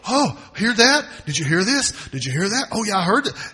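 mocking people who chase rumours; eager gossip. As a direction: play the gossip hungry for news.

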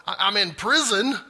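hammed-up astonished apostle; imitating astonished John. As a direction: play John floored by the vision, breathless and amazed. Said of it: "I don't know if he said it like that or not".

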